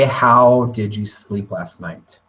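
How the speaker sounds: slow, caring question; gentle open question. Shown as a demonstration. Teacher to tired student, slow and caring. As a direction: ask it slowly and gently. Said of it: "to say".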